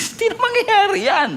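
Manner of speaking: high, laughing "mangyayari" of disbelief; scoffing laugh. Retold or imitated. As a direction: laugh it off as impossible. Sarah laughing it off. (natatawang hindi naniniwala)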